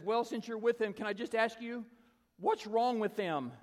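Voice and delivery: high, loud bewildered question; imitated high-pitched, insistent bafflement; baffled pleading. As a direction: ask as an amazed woman needing answers. Retold lady asks in bafflement.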